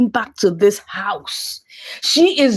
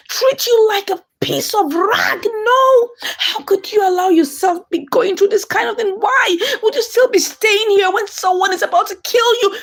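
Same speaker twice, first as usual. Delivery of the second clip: higher, half-crying plea to stop the abuse; upset scolding; 6 semitones higher than usual. Retold or imitated. Oma pleads with her battered cousin, higher, near tears. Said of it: "And Oma said".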